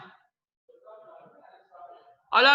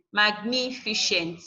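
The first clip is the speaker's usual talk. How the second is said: "magnificent" slowly, with stress on the second syllable, NI; slower than usual. Shown as a demonstration. Teacher modelling a word for students, "magnificent" stressed on NI. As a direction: lean on the NI in "magnificent". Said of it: "ni is the third syllable".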